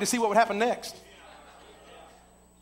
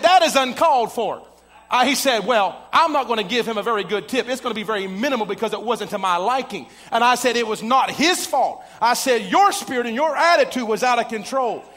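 louder, firm scolding of the rude guest; angry rebuke; 2 semitones higher, 5 dB louder than usual. Retold or imitated. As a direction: dress him down in public. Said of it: "And I got mad".

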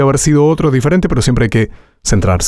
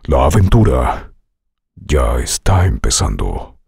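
deep trailer voice; 12 semitones lower than usual. Shown as a demonstration. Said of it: "Te sugiero algunas".

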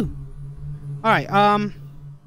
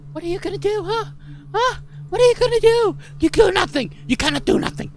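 mocking taunt; 10 semitones higher, faster than usual. Real, not acted. Taunting the ghost, high and loud.

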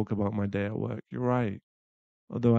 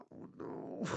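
dismayed whisper; 13 dB quieter than usual. Acted. Reacts to blood.

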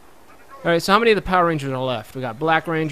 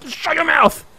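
high, loud hammed-up yell; mock shout; 11 semitones higher, 7 dB louder, slower than usual. Gamer yelling at an in-game snitch, mock shout. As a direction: bark it, half laughing.

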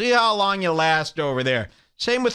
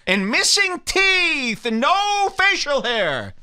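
high, drawn-out comic rant; slow, high-pitched mock indignation; mock outrage; 10 semitones higher than usual. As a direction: stretch the words out up high.

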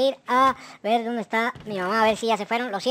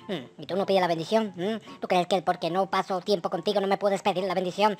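a hint of a gruff father scolding his son; dad voice; 7 semitones lower than usual. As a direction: play a mildly reproachful dad.

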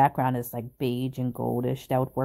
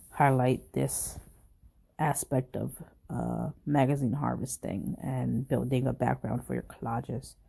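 hoarse, sick voice; talking through a cold. Real, not acted. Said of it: "thank you for bearing with my sick voice".

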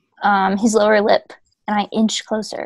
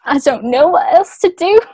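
louder mock Leeds accent; hammed-up Leeds voice; put-on Leeds accent; 6 semitones higher, 6 dB louder than usual. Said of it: "a Leeds accent".

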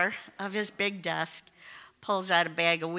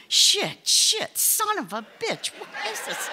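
panicked outburst; 12 semitones higher than usual. Retold or imitated. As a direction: blurt it out in sudden alarm, voice shooting up. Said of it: "I'm like".

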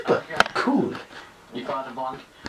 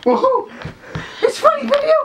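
excited shout. Real, not acted. Overexcited cry.

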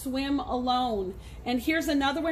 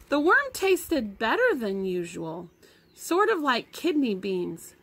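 reading a story aloud to the class; lively read-aloud voice; story narration; 3 dB louder than usual. A narrator's reading. Teacher reads novel to class.

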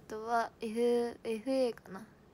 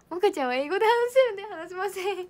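ペットの代弁; 8 semitones higher, 8 dB louder than usual. Pretend.

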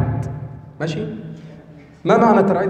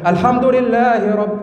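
higher jawab al-jawab register; 5 semitones higher than usual. Shown as a demonstration. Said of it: "هكذا اسمه جواب الجواب".

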